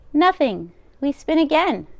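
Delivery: put-on old grandmother voice. Old baba taking the rabbi's coat, high and fussing. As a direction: bustle like a kind deaf baba. Baba voicing lines to Bear.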